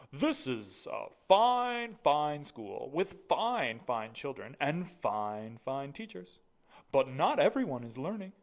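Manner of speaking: loud, slow, proud school principal; booming headmaster. Acted. Mister Keene's voice.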